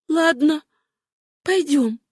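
high-pitched, decided agreement; resolute. A narrator's reading. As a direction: agree firmly, a pause between the words. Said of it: "она решительно произнесла". (решительно)

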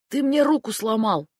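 high pained gasp of a complaint; groaning in pain. A narrator's reading. Vitya pinned down by Mishka, groaning in pain. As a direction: wince it out through the pain. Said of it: "охнул Витя".

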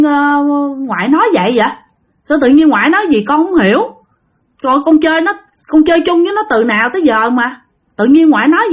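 acted mild bewilderment at being told off; baffled protest. Grandson questions grandmother's ban on his friend, baffled protest.

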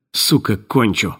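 медленно, хрипло угрожая; прохрипеть сквозь респиратор. Acted. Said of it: "прохрипел худощавый". (хриплая угроза)

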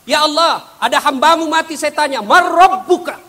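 high, loud urgent report; angel reporting up. Acted. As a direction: call it up to heaven with urgency. (malaikat melapor dengan suara tinggi dan lantang)

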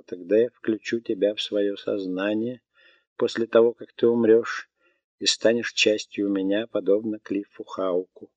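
lightly voiced melodic robot; a calm machine stating facts. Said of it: "голосом робота".

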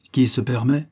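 a mild, indignant huff of surprise; indignant exclamation. Acted. Uncle startled by the inspector barging in, mildly indignant. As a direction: sound affronted at the intrusion. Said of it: "s'exclama Alexis Cardy".

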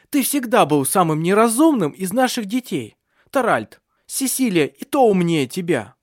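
high, loud tongue-lashing; furious mother. A narrator's reading. Mother lashing out at her foolish son, furious. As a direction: turn on him like a wildcat. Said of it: "превратилась в дикую кошку".

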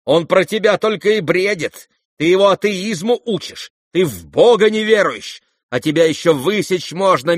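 loud, high, scolding tirade of an outraged lady; indignant matron. Acted. Outraged mother scolds the young guests, furious tirade. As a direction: rage at the mocking youths. Lizaveta scolds, asks prince.

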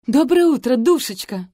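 high, loud chirpy greeting; chirping. A narrator's reading. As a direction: chirp it like a cartoon princess. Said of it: "прощебетала Мартиник".

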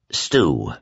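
low, gently said name; gentle. Acted. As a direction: gently get his attention. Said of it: "Glenn said gently".

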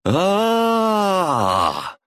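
long high moan of pain; drawn-out scream of agony; wailing in pain; agonized moan. A narrator's reading. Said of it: "застонал враг голосом Глеба".

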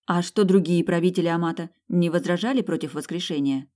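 questioning with a touch of surprise; mildly surprised. Acted. Heroine quizzes Dym about the operation, mildly surprised. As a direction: ask in mild wonder. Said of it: "удивилась я".

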